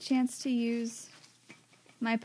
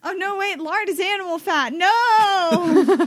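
high, rising surprised cry with laugh; shocked realization; 8 semitones higher, 11 dB louder, slower than usual. Real, not acted. Realizing lard is animal fat.

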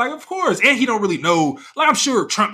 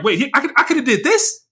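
imitating Obama; 7 semitones higher, 3 dB louder than usual. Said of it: "I'm sure he".

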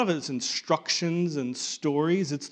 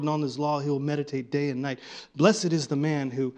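mumbled recitation. Shown as a demonstration. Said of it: "over and over".

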